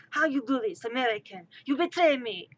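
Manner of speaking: indignant mock French Canadian accent; fake French accent. French Canadian blaming an American, fake French accent. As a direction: accuse them in a bad French accent. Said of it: "my attempt at a French accent".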